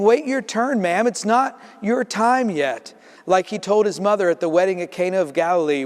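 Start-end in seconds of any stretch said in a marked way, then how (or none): 0.0-2.9 higher, slower put-off voice; dismissive Jesus. Acted. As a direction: brush her aside politely.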